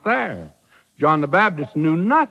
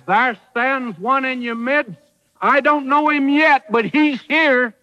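excited announcement; 7 semitones higher than usual. Retold or imitated. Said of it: "John says".

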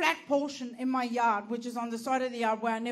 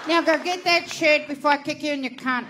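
mock threat; 3 semitones higher, 9 dB louder than usual. Imagined threat to lady.

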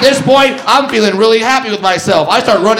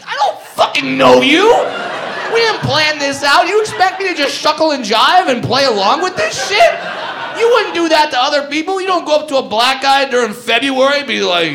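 raised, heated disbelief at the dad; indignant rant; 5 semitones higher than usual. Retold or imitated. Comic to the dad, outraged and raised. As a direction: let him have it, outraged.

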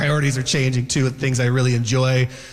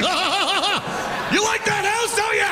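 teasing tickle; much slower than usual. Retold or imitated. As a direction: tease the house as if tickling it. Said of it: "I'm like".

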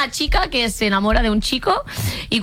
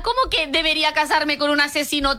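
indignant disbelief; 5 semitones higher than usual. Real, not acted. Indignant rant at Netflix.

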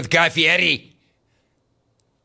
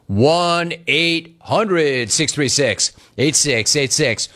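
announcer number read; slower than usual. Acted. Reads the phone number slowly.

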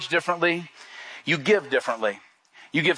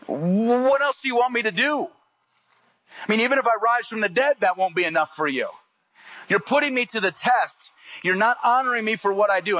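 exasperated Jesus; 4 semitones higher than usual. Retold or imitated. Jesus answering the Pharisees' demand for signs, exasperated. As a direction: sigh it out as a let-down teacher.

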